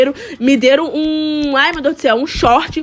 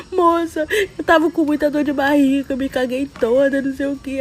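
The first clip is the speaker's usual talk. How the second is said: tearful; 3 dB quieter than usual. Retold or imitated. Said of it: "já comecei a chorar".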